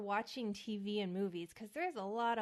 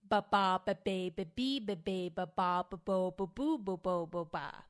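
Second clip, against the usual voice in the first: loud, overemphasized B syllables; vocal warm-up syllables; 5 dB louder than usual. Shown as a demonstration. Actor demonstrating the B round of her warm-up, loud and overemphasized. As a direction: pop each B hard with wide-open vowels. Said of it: "And then the double".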